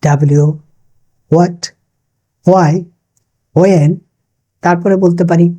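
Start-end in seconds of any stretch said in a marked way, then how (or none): 0.0-0.5 ডাব্লিউ as "da-bliu"; correct pronunciation. Shown as a demonstration. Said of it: "তাহলে আমরা জানলাম". 1.3-3.9 what, why, when each on a plain w; correct pronunciation. Shown as a demonstration. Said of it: "তাহলে আমরা জানলাম".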